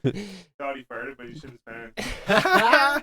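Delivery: milk the punchline slowly; joke punchline. Acted. Friend delivering a fart joke punchline, slow and laughing.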